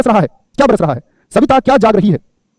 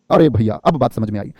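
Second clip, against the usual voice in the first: low, slow voice of a student finally getting it; mock dawning realization; 9 semitones lower, slower than usual. Teacher voices a student who finally understands, slow realization. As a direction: draw it out slowly and low, as the penny drops.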